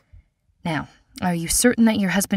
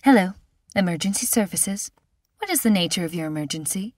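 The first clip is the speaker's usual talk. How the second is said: measured, unhurried operator voice; serenely calm. Acted. Emergency operator answering a panicked call, serenely calm. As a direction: soothe the caller with steady calm. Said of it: "a measured and serenely calm voice say".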